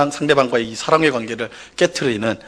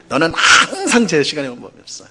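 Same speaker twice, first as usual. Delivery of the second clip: 항상 said plainly with a falling close; mild reproach; 3 semitones higher than usual. Shown as a demonstration. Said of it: "뭐 이렇게 말하거나".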